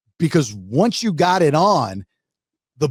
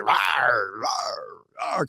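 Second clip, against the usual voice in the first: shark roars; 3 semitones lower, 5 dB quieter, much slower than usual. Retold or imitated. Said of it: "It was more".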